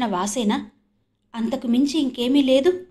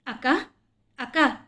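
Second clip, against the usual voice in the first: pleading; 3 semitones higher than usual. A narrator's reading. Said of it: "జాలిగా బ్రతిమాలుతున్నాడు".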